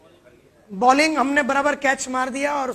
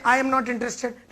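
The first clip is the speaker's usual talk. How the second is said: customer refusal; 3 dB quieter, much slower than usual. Shown as a demonstration. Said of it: "customer', then we say".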